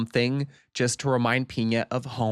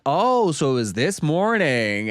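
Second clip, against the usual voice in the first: gotcha; 3 semitones higher, 5 dB louder, slower than usual. Retold or imitated. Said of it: "He's like".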